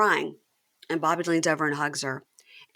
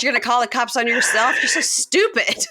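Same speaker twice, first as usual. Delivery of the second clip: mock scornful girlfriend; 6 semitones higher, 3 dB louder than usual. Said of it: "Taylor goes".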